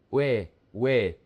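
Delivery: "we" as one gliding syllable; U and E run together in "we"; joined diphthong. Shown as a demonstration. Teacher drills the two vowels together, "we" as one sound. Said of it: "The diphthong is pronounced together".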